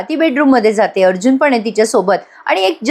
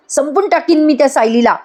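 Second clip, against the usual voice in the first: the repeat pitched higher and pushed harder; rising angry vow; 6 semitones higher than usual. Acted. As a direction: hurl the threat back, higher. Priya repeats her vow. (पुन्हा उंच आवाजात रागाने धमकी)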